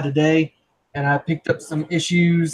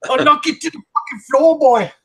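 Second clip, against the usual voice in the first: put-on Irish accent; 9 semitones higher, 4 dB louder than usual. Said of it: "woke up three days later with an Irish accent and fighting".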